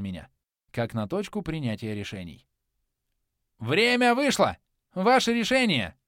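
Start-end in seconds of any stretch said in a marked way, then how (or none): 3.6-6.0 loud, slow demanding shout. A narrator's reading. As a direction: bellow the ultimatum. Villain demands a decision.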